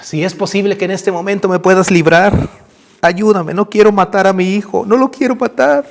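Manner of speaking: pleading prayer rising into a cry; tearful plea. Acted. Father begs God to spare his son, tearful pleading.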